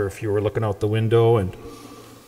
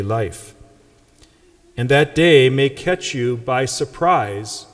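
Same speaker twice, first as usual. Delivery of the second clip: measured, solemn proclamation of scripture; Gospel reading. Acted. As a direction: read the Gospel aloud to the congregation, unhurried.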